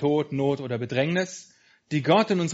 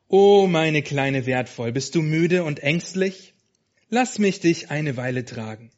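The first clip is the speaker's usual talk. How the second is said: gentle but strong; 4 dB louder than usual. Acted. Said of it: "seine sanfte, aber starke Stimme".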